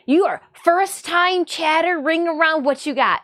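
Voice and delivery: loud taunting come at me; mock challenge. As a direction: taunt them to bring it. Mock challenge to new troll.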